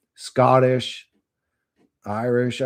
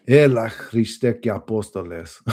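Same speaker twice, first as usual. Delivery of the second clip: slow Greek exclamation, imitating dad; dad's Greek oath; 4 dB louder than usual. Quoting what his dad used to say, Greek oath. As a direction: draw out the Greek like dad cursing. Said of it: "my dad would used to say".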